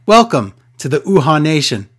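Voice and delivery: hint of a grand announcer's welcome; mock announcer. Imagines an announcer's welcome line.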